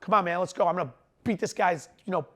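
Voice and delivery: lightly voiced wrestler urging himself on; a hint of mat-side hype; wrestling voice. Shown as a demonstration. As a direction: pump up a teammate in short bursts. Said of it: "That's my wrestling voice".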